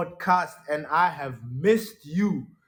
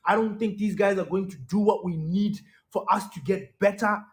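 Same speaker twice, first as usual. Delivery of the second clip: upset rant; 4 semitones higher than usual. Retold or imitated. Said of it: "And I remember saying".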